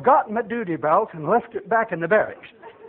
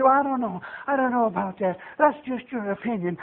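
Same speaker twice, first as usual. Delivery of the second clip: softer, lightly imitated hedging; mock doubter; 6 dB quieter than usual. Christians argue with the Spirit, soft mock hedging. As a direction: brush it off quietly, mimicking a sceptic.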